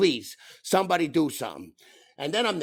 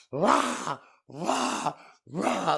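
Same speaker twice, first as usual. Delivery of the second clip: mock kid battle cry; 4 semitones higher, much slower than usual. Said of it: "she's in there going".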